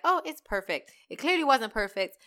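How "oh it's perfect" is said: higher sweet wifely voice; light mock Mrs Claus voice. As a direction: chirp it like a doting wife. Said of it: "Missus Claus is like".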